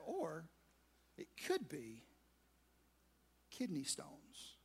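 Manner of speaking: soft, slow, dropping to a near whisper on kidney stones; a quiet dread-filled reveal; hushed reveal. Retold or imitated. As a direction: let the words sink, almost breathless. Dramatic reveal of the diagnosis.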